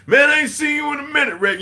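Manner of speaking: high, loud mock Irish greeting; imitated Irish accent. Imitating an Irish friend greeting him, shouted Irish accent. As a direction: imitate an Irishman hollering hello. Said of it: "You know, with that little accent".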